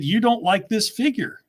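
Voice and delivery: mock telling-off of a nagging critic; exasperated retort. Reply to a repeat complainer, exasperated.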